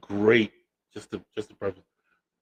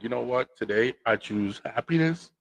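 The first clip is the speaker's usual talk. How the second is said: calm resigned; 6 dB quieter, slower than usual. Retold or imitated. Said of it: "And I said".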